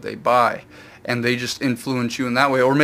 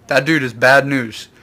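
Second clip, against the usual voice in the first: a bit louder, urgent pleading; Coby panicking; 4 semitones higher, 6 dB louder than usual. Retold or imitated. Coby warning Luffy about Zoro, louder, urgent alarm. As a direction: warn him off, alarmed. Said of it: "Kobe's like".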